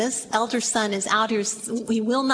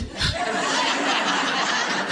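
breathy high laugh at the ending; a quick unvoiced laugh at the cliffhanger; 10 semitones higher than usual. Real, not acted. Preacher laughing at the abrupt ending.

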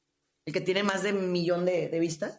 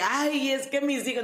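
mocking whiny excuse; 5 semitones higher than usual.

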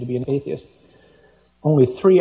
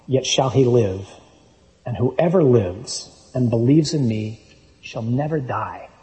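scripture reading. Acted. Reads Gospel dialogue aloud.

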